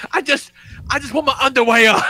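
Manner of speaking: high, mock kid yell; whining child imitation. Dad imitating his undressed son, high childish whine.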